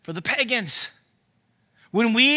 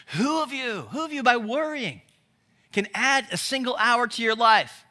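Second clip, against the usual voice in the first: gentle, higher-pitched tender question; loving tone; 4 semitones higher than usual. Acted. Preacher imagining Jesus questioning worriers, in a loving tone. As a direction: ask it lovingly, pitch lifted. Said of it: "he says it in a loving tone".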